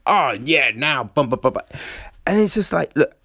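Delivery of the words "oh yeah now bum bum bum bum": mock breezy snap back to normal; instant switch. Showing a faked recovery from tears, instantly breezy. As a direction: rattle on as if nothing happened. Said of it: "It's not just instant switch".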